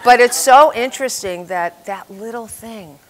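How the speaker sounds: loud, laughing through the words. Real, not acted. Laughing loudly while telling the audience about her childhood poem. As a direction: laugh at your own silly poem as you talk.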